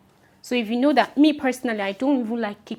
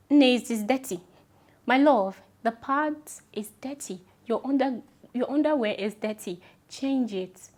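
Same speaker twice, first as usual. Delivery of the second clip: a little bit of craze; 2 semitones higher than usual. Real, not acted. Telling viewers their dirty underwear must be changed, fired-up Nigerian scolding. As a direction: scold them like a caring big sister, my love. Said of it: "my Nigerian accent comes out sometimes with a little bit of craze in there".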